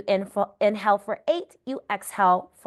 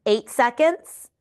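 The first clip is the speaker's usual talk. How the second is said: counting cues; 4 dB louder, slower than usual. Shown as a demonstration. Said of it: "I just keep lapping it".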